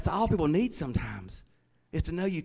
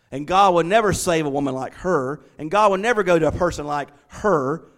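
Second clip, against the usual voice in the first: mock-judgmental churchgoer, leaning on each verdict; disapproving church voice, put on for irony; sarcastic. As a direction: say it with an audible eye-roll. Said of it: "I'm saying this sarcastically, my eyes rolling".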